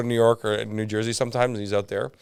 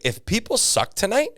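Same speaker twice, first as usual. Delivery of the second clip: high, louder hyped rant; mock host rant; 9 semitones higher, 4 dB louder than usual. The host urging the audience to throw things, high and loud. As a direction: rile up the crowd.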